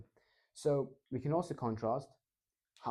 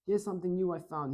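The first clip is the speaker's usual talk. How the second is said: warm, upbeat; 7 semitones higher, 3 dB louder than usual. Shown as a demonstration. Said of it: "We're very warm".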